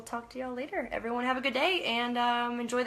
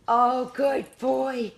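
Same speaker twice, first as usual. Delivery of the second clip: slow, louder, high pet praise; high, slow dog praise; 4 semitones higher, 9 dB louder, much slower than usual. Real, not acted. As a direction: praise the pup slowly in a high voice.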